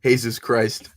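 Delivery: "Jesus Christ" with a Spanish "hay-soos"; joking Spanish Jesus. Pretend. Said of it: "Jesus Ferreira?".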